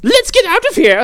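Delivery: panicked shout. Retold or imitated. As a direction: scream it like fleeing minions.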